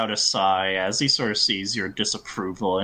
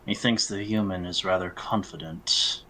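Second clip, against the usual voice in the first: measured, understated disdain; cool, condescending remark; haughty elf; 3 dB quieter than usual. Acted. Elf to Air about the human, coolly haughty.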